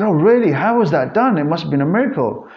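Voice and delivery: hammed-up incredulous reaction, pitch jumping up; mock amazement. Mock amazed reply of clients.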